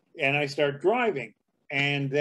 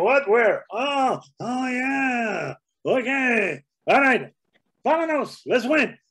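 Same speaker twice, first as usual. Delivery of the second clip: excited bandits; 9 semitones higher, slower than usual. Retold or imitated. Banditos hearing about wallets, higher excited shouting. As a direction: whoop and rush off.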